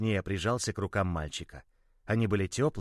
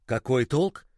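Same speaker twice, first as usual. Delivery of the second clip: mild shout; slower than usual. Acted. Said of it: "Мальчик вдруг закричал".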